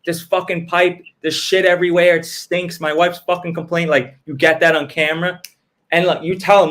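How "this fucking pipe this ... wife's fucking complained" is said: mock stressed customer, a little higher; mildly acted exasperated complaint. Customer complaining to plumber on camera, mock stressed. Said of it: "he's, like, stressed".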